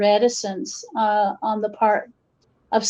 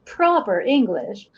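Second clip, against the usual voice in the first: carefully enunciated proper English; proper English accent. Shown as a demonstration. Speaker shows outsiders how she code switches, in a careful proper English accent. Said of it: "I immediately code switch".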